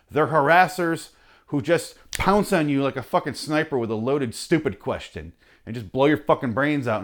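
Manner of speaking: ordinary talk, nothing marked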